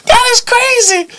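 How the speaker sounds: high, drawn-out words through real laughter; laughing hard. Real, not acted. Reacting to the joke about a rapper, helpless high laughter. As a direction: squeal it out while cracking up.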